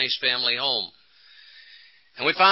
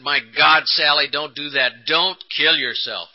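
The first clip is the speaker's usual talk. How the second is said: a touch louder urgent pleading; loud intense plea. Retold or imitated. Husband begging wife not to kill herself, loud and urgent. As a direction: urge her not to do it. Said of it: "the loudness and the intensity of my voice".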